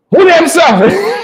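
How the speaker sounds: slow, laughing, half-crying mock reply; Savitri laughing. Church girl Savitri answering the suitor, laughing. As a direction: play the girl cracking up as she asks.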